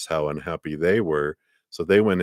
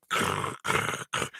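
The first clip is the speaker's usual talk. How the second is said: sound effect; 10 semitones lower, 6 dB quieter than usual. Acted. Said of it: "like my sound effects".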